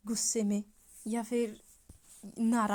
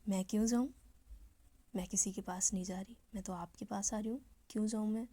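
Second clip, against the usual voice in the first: lovingly; faster than usual. Acted. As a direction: soothe her gently with love. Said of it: "बहुत ही प्यार से".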